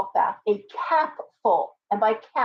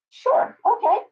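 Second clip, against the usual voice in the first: sarcastic sure; 12 semitones higher, 3 dB louder, slower than usual. Real, not acted. Mocking the client's nasty boss.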